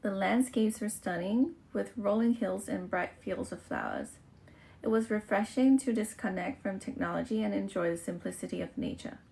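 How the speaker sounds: careful read-aloud of a test passage. Shown as a demonstration. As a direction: read each sentence out steadily for the test. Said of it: "อ่านต่อนะคะ". (อ่านออกเสียงอย่างตั้งใจ)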